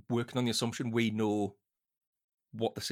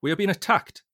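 high, loud acted scream of alarm; a captain screaming that the ship is under attack; 10 semitones higher, 9 dB louder than usual. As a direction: scream it into the radio. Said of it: "Mason screamed in the microphone".

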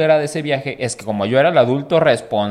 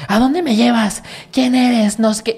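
agudo y confundido; drunk confused guy; 10 semitones higher, slower than usual. Retold or imitated. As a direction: habla como borracho perdido. Borracho confundido. (borracho confundido preguntando)

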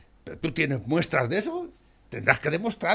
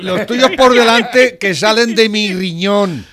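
angry rant; 4 semitones higher, 9 dB louder, slower than usual. Real, not acted. Ranting about Pablo Iglesias' pay.

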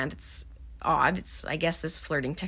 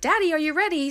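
pitched way up, calling out sweetly; a prim wife calling her husband; Mummy calls Daddy in a mock high voice; 10 semitones higher, 3 dB louder, faster than usual.

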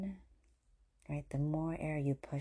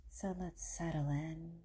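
guided meditation; 6 dB quieter than usual. Acted. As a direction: ease the listener gently into stillness. Leads settling-in meditation.

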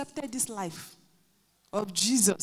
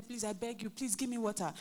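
put-on pleading child; 5 dB quieter than usual. Child begging for water.

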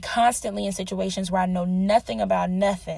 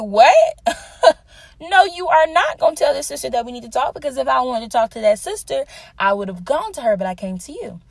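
loud, high-pitched, incredulous protest; indignant retort; 5 semitones higher, 6 dB louder than usual. Retold or imitated. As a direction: act out a shocked objection, easing off by the end. Retold indignant reaction to sister.

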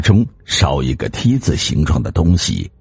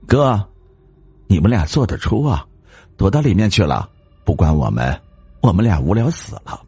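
playful reproach; 4 semitones higher than usual. Acted. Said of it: "王美丽责怪着王大贵他们".

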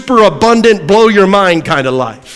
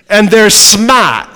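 lightly New England, dropping the R in smart; New England accent; 2 semitones higher, much slower than usual. Real, not acted. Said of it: "That's my New England accent".

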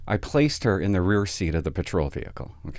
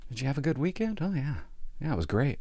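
mock chirpy; 5 semitones higher, 8 dB quieter than usual. Mocks chirpy weekend question.

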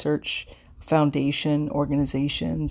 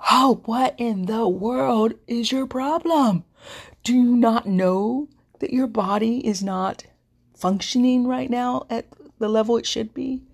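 mock scolding body; 7 semitones higher than usual. Cancer survivor voicing her body as it mockingly scolds her, in a high, hammed-up nagging voice. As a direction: act out your own body nagging you in a high, exaggerated voice. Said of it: "it was screaming Bloody Mary to me".

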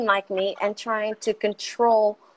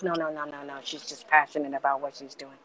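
mom calming dad; 4 semitones lower than usual. Retold or imitated. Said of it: "My mom's just like".

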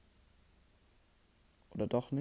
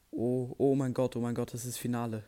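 shrieking jackpot winner; 3 dB louder than usual. Real, not acted. Reaching the final, overjoyed.

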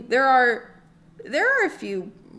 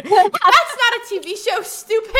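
laughing retort; 8 semitones higher, 8 dB louder than usual. Real, not acted.

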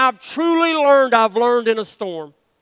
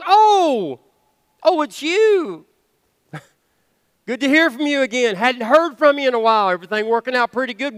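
mock casual Lord. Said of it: "sometimes I wonder if he goes".

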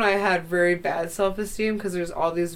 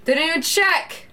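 indignant exclaim; 10 semitones higher, 5 dB louder than usual. Real, not acted. Indignant about baggage check.

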